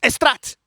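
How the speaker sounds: Estrate said with added e, es-TRA-te; mispronounced Straat. Shown as a demonstration. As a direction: say Estrate as es-trah-te, Portuguese style.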